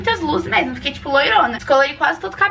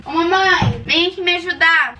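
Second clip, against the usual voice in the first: calling out; 3 semitones higher than usual. Real, not acted. Calls her mother for help.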